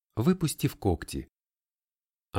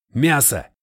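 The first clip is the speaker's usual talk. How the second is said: exclaiming; 4 semitones higher, 8 dB louder than usual. A narrator's reading. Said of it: "воскликнул Колтон".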